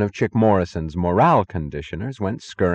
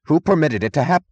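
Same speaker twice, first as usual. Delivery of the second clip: raised, higher voice, broken off; rising voice; 9 semitones higher, 6 dB louder than usual. A narrator's reading. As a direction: start an indignant outburst, then cut it. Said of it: "he began in a rising voice".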